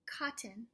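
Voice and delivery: "cotton" with its first k sound punched; stressed k sound. Shown as a demonstration. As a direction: lean on the k at the start of "cotton". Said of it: "Do you hear that?".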